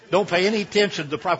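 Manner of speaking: fast, pushy sales pitch; carnival barker. Acted. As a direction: hype it like a fairground barker. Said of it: "I sound like a, a, a carnival barker now".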